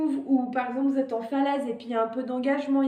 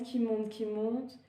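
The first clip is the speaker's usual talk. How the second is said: slow rising breath; 6 dB quieter than usual. Shown as a demonstration. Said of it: "Il faut que vous sentiez l'air qui monte".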